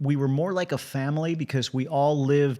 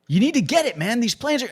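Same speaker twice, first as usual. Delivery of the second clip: higher and louder, pressing him to hurry; urgent mock order; 9 semitones higher, 5 dB louder than usual. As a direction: crew chiefs rushing the new guy. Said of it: "they're like".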